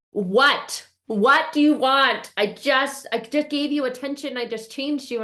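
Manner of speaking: high-pitched exasperated demand; frustrated. Retold or imitated. Scolding the smoke alarm after changing its battery, frustrated. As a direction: reenact pleading annoyance at a stubborn gadget. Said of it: "I'm getting frustrated, and I'm getting angry".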